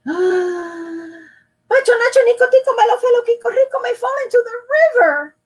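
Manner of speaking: high, loud rattle of names; breathless rush. Acted. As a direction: stretch the first name then race on. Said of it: "another deep breath".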